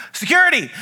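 sudden high, loud joking call; mock call for security. Pastor jokingly calling security on his piano-playing friend, high and loud. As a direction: pretend to summon the guards on your friend.

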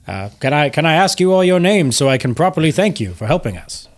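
lightly voiced gruff ship's captain; officious captain, pausing on little "uh"s. Captain thanks passengers for helping his crew, lightly gruff. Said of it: "you hear a gruff voice say".

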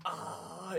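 high, very soft cringing "ah"; cringing groan. Shown as a demonstration. Podcaster recoiling from the actor's accent slip, cringing groan. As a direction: let out a small, high recoiling noise.

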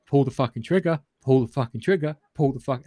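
urging shout at the screen. Retold or imitated. Reviewer reliving yelling at the film, mock urgent shout. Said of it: "I'm watching it going".

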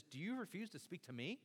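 indignant demand, rising in pitch; acted-out anger, pressing the questions; mock a governor's affronted outburst; angry Pilate. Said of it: "So Pilate gets angry".

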